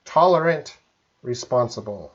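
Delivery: "Tolerant" and "responsible" each set apart by a pause; pronunciation demo. Shown as a demonstration. Teacher repeats the words for a student, separated pronunciation demo. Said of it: "I pronounce that".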